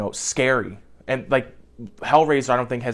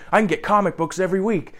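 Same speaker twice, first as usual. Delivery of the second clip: put-on high, fast, dopey kid voice; doofy friend voice; 8 semitones higher, faster than usual. Imitating the doofy friend bragging to his buddies, dopey. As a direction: play it like a goofy, not-all-there teen. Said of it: "the doofy guy was like".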